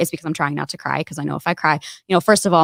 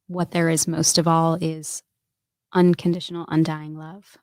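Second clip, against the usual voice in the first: tender message. Real, not acted. Message to her future children.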